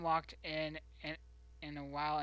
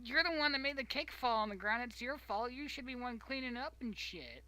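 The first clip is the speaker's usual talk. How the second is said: indignant; 7 semitones higher, 3 dB louder than usual. Retold or imitated. Retorting to mother.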